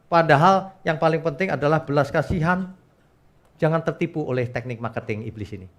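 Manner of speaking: usual speaking voice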